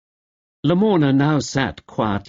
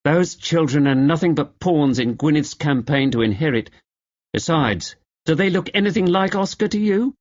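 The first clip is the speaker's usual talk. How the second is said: pointedly loud; 6 semitones higher than usual. Acted. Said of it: "hoping the twins would overhear".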